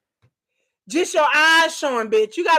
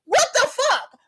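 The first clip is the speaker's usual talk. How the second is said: high incredulous what the fuck; shocked outburst; 9 semitones higher than usual. Real, not acted. Reacting to her own imagined scenario, high shocked disbelief. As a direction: jolt up in disbelief.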